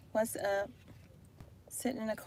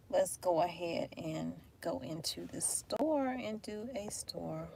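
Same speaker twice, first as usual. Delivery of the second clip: hushed whisper getting out of the car; 9 dB quieter, much slower than usual. Real, not acted. Vlogger whispering to viewers before heading in, hushed. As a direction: whisper it, barely voiced.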